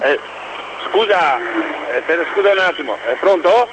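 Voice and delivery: caller on a phone line; thin telephone sound; over the phone. Real, not acted. Caller phones into radio show.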